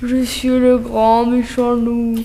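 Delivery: voix grave. Acted. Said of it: "faire une voix grave, euh, méchant".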